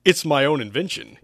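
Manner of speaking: mildly smug brag; bragging. Acted. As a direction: show off proudly. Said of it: "Hugh bragged".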